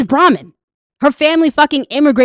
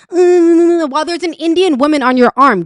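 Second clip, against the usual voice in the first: higher, louder hesitant mock of a politician; hammed-up nervous stammer of a timid politician; mocking JD Vance; 5 semitones higher, 3 dB louder than usual. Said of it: "come out with this".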